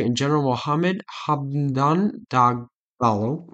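Mohammed Hamdan Dagalo said slowly, each syllable placed; careful name pronunciation. Shown as a demonstration. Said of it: "Okay, that's not bad".

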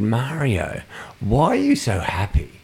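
puzzled question, lightly put; unwitting insult. Retold or imitated. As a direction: ask it innocently, falling at the end. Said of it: "so here's the insult".

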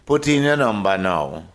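plain Jamaican patois reading of Put in your number now. Shown as a demonstration. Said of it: "can you give me a little rendition".

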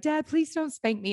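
imitating a tearful high-schooler pleading; crying plea. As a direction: beg your dad not to spank you, in tears. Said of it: "and, you know, I'm crying".

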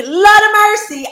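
high, loud cry of Lord of mercy; a big high burst of disbelief; exasperated exclamation. Real, not acted. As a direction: throw up your hands at yourself. Exclaiming over her own posting.

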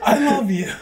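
high, giggly declaration; laughing mock confession. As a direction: blurt it out while laughing.

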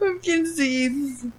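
crying with laughter; laughing. Real, not acted. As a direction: label read through giggles. Reading label, laughing.

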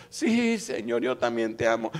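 loud, eager disciple's reply; hammed-up declaration of love; Pedro. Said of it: "le dijo el Señor a Pedro".

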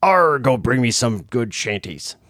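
slow mock pirate voice; hammed-up pirate order. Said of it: "People hear your voice".

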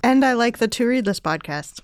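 flat mechanical robot voice. Pretend. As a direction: speak like a monotone robot. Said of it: "she said in a robot voice".

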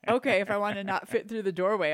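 loud, laughing mock disbelief; laughing sarcasm. Real, not acted. Wife scoffing at husband's casserole meal-prep idea, laughing loudly.

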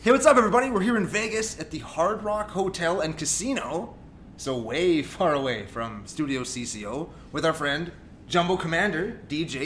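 big upbeat radio host intro; slow, booming radio guy delivery; radio announcer voice. Real, not acted. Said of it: "You sound so much like a radio guy".

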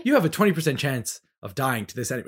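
fast flat robotic readout; monotone like a robot. Retold or imitated. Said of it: "robotic sounding voice".

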